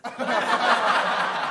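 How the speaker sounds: a breathy chuckle at the punchline; soft laugh. Real, not acted. Laughing at his own blunder while telling the story. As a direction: let a quiet laugh slip out.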